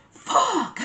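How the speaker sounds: a sudden high yell of frustration, as loud as possible. Retold or imitated. Furious over the missing crazy breads, yelling alone behind the door. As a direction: scream it out after the door closes. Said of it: "Like, as loud as I could".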